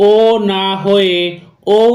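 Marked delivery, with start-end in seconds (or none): 0.1-0.1 ও as a single pure O vowel; plain O sound. Shown as a demonstration. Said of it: "ও লেটারটির উচ্চারণ". 1.8-1.8 ঔ as an O gliding into U; OU diphthong. Shown as a demonstration. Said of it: "এর মতন হয়".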